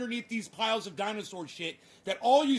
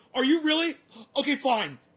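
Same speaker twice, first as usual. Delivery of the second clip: flustered, rattled, caught off guard; 4 semitones higher, 5 dB louder than usual. Mocking a congressman questioning a witness: imitating flustered Matt Gaetz. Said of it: "Do you hear how flustered Matt Gaetz is getting?".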